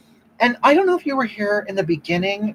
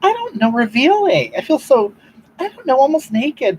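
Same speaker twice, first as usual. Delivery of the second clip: high-pitched scandalized whine, shooting way up; shocked high whine; 8 semitones higher, 4 dB louder than usual. Retold or imitated. Telling wife about a revealing camisole, high scandalized whine. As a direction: squeal it out like the top is far too daring. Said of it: "I go".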